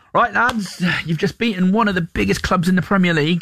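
lightly Welsh, high, rousing manager; a hint of a Welsh football manager rallying the lads; Welsh accent. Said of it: "do the Welsh accent".

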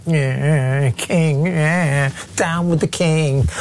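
mock sulky teenager, dismissive and bored; petulant adolescent. Host mocking the new MP's oath as a sulky teen. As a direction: sneer it like a sulky teen brushing off the king. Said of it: "like a sort of petulant adolescent".

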